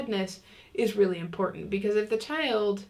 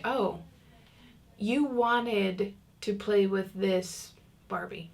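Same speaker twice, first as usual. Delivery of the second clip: slow, calm and gentle; calm validating; much slower than usual. Shown as a demonstration. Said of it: "using a calm voice".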